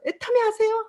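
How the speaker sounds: 애터미 아세요 asked high and bright, 애터미 punched; bold pitch. Retold or imitated. Proudly pitching at the checkout in front of partners, bold and high. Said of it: "활짝 펼쳐서".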